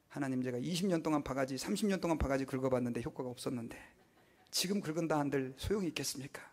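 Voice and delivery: quiet surrendering prayer, half whispered; humble prayer. Retold or imitated. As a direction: pray it softly, giving up the nagging. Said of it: "이렇게 한단 말이에요".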